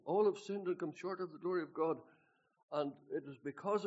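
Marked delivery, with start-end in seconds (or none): 0.0-2.0 higher and louder scripture quote; loud preaching quote; quoted verse. Retold or imitated. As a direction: proclaim the verse.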